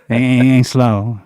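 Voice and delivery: quick-talking Texan demo; fast, clipped Texas voice. Shown as a demonstration. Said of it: "You talk like this".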